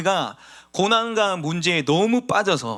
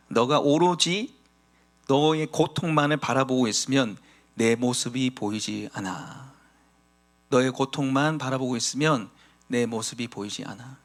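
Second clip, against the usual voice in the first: God speaking gently; 4 semitones lower than usual. Acted. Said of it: "하나님이 이렇게 얘기합니다". (슬퍼하는 아버지에게 조용히 말하는 하나님의 낮고 느린 목소리)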